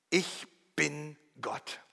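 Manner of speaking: slow whisper, Ich bin Gott; whispered claim. Acted. Preacher voicing Jesus's claim to be God, slow whisper. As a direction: breathe it out in awe.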